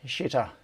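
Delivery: "Shitter" starting with a "sh" for the X; Chinese-style X. Shown as a demonstration. Streamer confirms the nickname "Shitter", X pronounced as Chinese "sh". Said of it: "with the Chinese pronunciation of the X".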